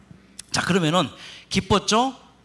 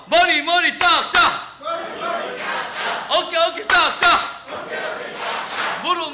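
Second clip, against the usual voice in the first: kindergarten teacher voice; 10 semitones higher, slower than usual. Acted. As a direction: call out the clapping game like a kids' teacher. Leads a children's clapping game.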